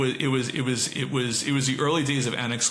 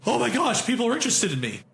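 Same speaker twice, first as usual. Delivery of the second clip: mock excitement; 9 semitones higher, faster than usual. Mocking a flattered company.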